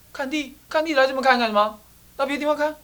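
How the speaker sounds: high, loud scolding; old man telling visitor to get lost; fierce old man. Acted. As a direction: chase them off, irritated. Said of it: "这个老先生怎么那么凶啊".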